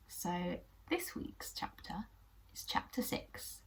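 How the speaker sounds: hushed, slow chapter announcement; secretive storyteller's hush; whispered intro. Acted. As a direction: lean in and whisper it.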